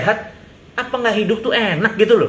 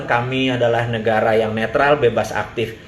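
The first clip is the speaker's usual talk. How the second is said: mocking official line; 8 semitones lower than usual. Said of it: "bukan bilang".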